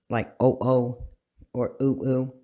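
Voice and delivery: oh, oh and ooh, ooh said as two separate beats, the wrong way; vowels chopped in two as a bad example; wrong doubled vowels. Shown as a demonstration. Teacher showing students the wrong doubled vowels. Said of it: "not pronounced twice".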